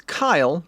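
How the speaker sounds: "Kyle" pronounced distinctly with a final L; correcting pronunciation. Real, not acted. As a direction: say "Kyle" as one clear syllable, unlike Kaya. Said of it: "not Kaya".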